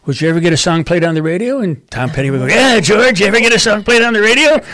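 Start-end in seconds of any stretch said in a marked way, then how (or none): 2.5-4.6 imitation of a singer. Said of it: "Like a singer, right?".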